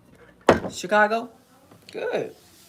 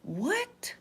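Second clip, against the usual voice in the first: shocked what; 13 semitones higher, 4 dB quieter than usual. Retold or imitated. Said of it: "I was like".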